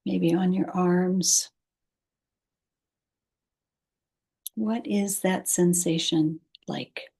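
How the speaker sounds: calm, unhurried guidance with long pauses; guided meditation. Acted. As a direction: ease the listener toward sleep, pausing between phrases. Leads a meditation.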